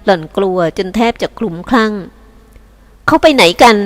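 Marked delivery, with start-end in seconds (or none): 2.5-3.8 slow question. Acted. Mistress asks servant, drawn out.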